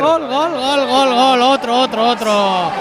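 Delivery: excited. Real, not acted. Goal celebration.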